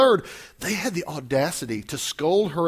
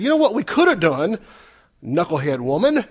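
mock scornful; 4 dB louder than usual. Preacher voices disciples scolding the woman, mock scornful. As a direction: act out a touch of scolding superiority. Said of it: "That's the attitude".

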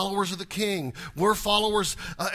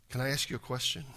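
ordinary delivery

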